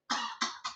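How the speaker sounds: voiceless mocking snicker; imitated laughter. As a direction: mimic people laughing at someone. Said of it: "they start laughing like".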